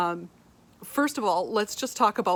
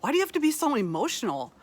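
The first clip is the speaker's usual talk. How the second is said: mock critic; 5 semitones higher, much faster than usual. Voicing harsh critics.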